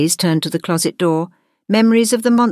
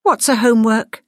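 raised, uncertain monster voice; wavering; 6 semitones higher than usual. A narrator's reading. Monster Dave asking about homework, slightly wavering. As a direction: ask it with a touch of wavering. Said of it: "Dave's voice wavered".

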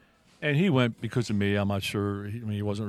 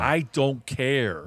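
slow, separate stress on each word of "I don't care"; emphatic insistence; 2 semitones higher, much slower than usual. Real, not acted. Speaker dismissing objections to old scripture, "I don't care" slowly stressed. Insists repeatedly on his belief.

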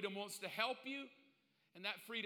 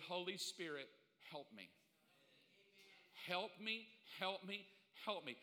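soft whispered prayer; 2 semitones lower, 6 dB quieter than usual. Shown as a demonstration. Quiet modelled prayer.

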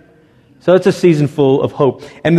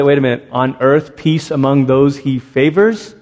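puzzled objection; 3 semitones lower than usual. Retold or imitated. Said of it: "the average Christmas junkie is gonna stop and say".

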